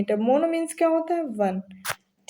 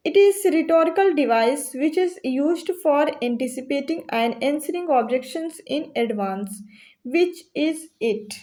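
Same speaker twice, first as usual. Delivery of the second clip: slow question reading; much slower than usual. Shown as a demonstration. Teacher reads quiz question aloud.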